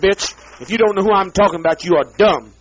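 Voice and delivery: loud, furious ranting; enraged yelling; angry shout. Real, not acted. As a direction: bellow the insults at them. Ranting curses at enemies.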